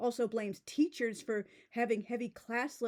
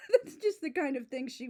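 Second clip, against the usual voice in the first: laughing; 4 semitones higher, 3 dB louder than usual. Real, not acted. Still laughing at the author.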